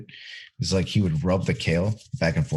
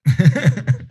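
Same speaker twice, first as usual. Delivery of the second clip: loud gung-ho soldier; 8 semitones higher, 6 dB louder than usual. Pretend. Mock drill order reply.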